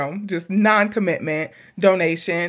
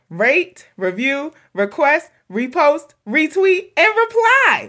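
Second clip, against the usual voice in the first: rising higher with each word; building excitement; 6 semitones higher than usual. Real, not acted. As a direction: build up to the last. Listing the R's proudly.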